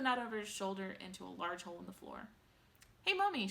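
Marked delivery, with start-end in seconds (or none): 3.0-3.5 high loud demand; shout. A narrator's reading. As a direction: yell for mother. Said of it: "shouted Veruca Salt suddenly".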